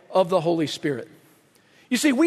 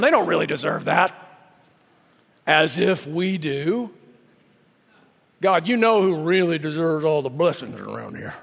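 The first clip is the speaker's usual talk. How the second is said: southern redneck voice; 6 semitones lower than usual. Acted. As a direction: grumble it in a put-on redneck accent. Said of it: "I go into this southern redneck voice".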